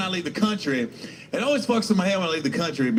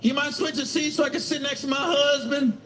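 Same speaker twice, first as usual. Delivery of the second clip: higher polite request voice; passenger asking; 7 semitones higher than usual. Retold or imitated. Woman asking him to switch seats, higher and polite. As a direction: ask sweetly for the favor. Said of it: "They'll just come over".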